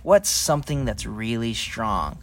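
a hint of a squeaky pig; oinking pig character; lightly voiced pig. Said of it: "I'm Patty Pig".

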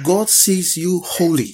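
slow, drawn-out declaration; preacher's proclamation. Real, not acted. Preacher closes meeting declaring how God sees them, proclaiming. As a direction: proclaim it slowly over the congregation. Proclaims conclusion, asks for amens.

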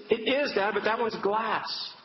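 high retold child's protest; insistent daughter. Daughter corrects her dad about the glass, mildly exasperated insistence. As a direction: imitate a child spelling out the obvious. Daughter explains urgently to father.

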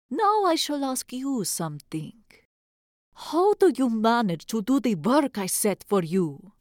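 sly old witch, lightly voiced; lightly voiced old witch, probing the girl. Narrator voices Baba Yaga.

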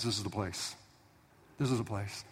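God whispering to Abraham; whispered word from God. Retold or imitated. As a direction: breathe it quietly into his spirit.

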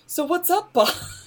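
high-pitched, playful hail; mock casual greeting. Player jokes about greeting the boss from too close, high playful voice. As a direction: pitch it up high like a cheeky hello. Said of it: "and be like".

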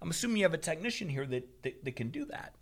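carefully controlled, polite pushback; trying to stay calm. Retold or imitated. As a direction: keep it measured and trail off softly. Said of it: "trying to be very calm here".

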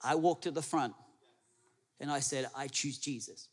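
a meek, hesitant objection to the pastor; protesting churchgoer. Acted. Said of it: "I know what you're thinking".

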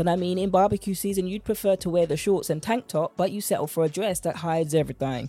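soft, polished intro read over music; podcast intro read. Acted. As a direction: sell the show gently, like a trailer.

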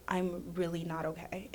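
soft, slow admission; quiet confession. Retold or imitated. Confiding to friends, soft and slow. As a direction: say it small and slow. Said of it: "I'd be like".

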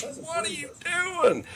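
very high, drawn-out incredulous squawk; mock yell. Cousin yells at the man with the bear, high mock yell. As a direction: imitate a yell in a thin high voice, held back in volume. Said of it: "he's yelling at the guy".

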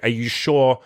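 slow, lightly imitated request for reassurance; retold hesitant question; asking permission. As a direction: draw it out, checking it's really allowed. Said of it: "asking me for permission almost".

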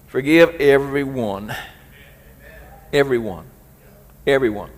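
insistent, dropping repetition; emphatic repetition. Real, not acted. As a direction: drive the word home. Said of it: "repeated for emphasis".

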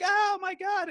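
high-pitched, loud mock amazement; amazed reaction. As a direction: imitate starstruck fans, pitch shooting up. Imitating amazed fans meeting him.

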